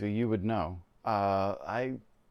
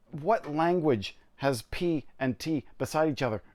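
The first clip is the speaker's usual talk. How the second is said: incredulous; 4 semitones higher than usual. Real, not acted. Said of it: "amazed at spelling".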